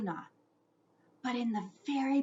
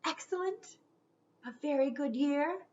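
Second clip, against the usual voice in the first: connoisseur voice; 4 semitones higher, 4 dB quieter than usual. Acted. Ghost savours grapes like wine.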